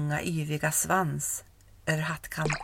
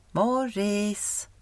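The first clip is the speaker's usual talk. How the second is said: second call, not as high; calling again, softer; 4 semitones higher than usual. Acted. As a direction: call once more, less urgent. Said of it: "någon som ropade".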